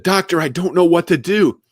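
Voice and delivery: hammed-up complaint to the doctor; mock complaining. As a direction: plead it high and loud, imitating yourself. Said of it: "listening to me complain about my depression".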